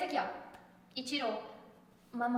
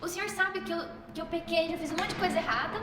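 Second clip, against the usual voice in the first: higher, distressed questioning; retold tearful pleading; 4 semitones higher than usual. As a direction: protest your unworthiness as if crying. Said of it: "comecei a chorar muito e falar".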